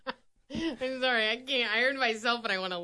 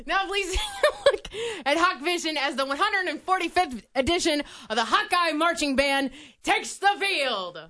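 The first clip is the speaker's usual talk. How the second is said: announcer voice. Pretend. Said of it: "your best, announcer voice".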